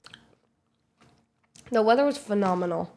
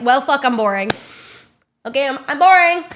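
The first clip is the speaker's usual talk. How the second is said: exasperated retort; 4 semitones higher, 8 dB louder than usual. Retold or imitated. Defending herself to drunk lady.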